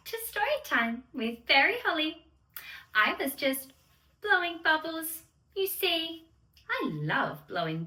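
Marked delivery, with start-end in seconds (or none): 0.1-2.2 put-on bright, sing-song welcome to children; cheery kids' host greeting. Fairy host greeting the little dreamers, sing-song and bright.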